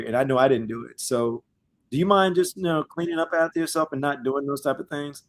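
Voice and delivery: a calm, easygoing word with a messy houseguest; gentle polite request. Retold or imitated. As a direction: ask nicely, trying not to offend the roommate. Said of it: "You're gonna try to talk to him like".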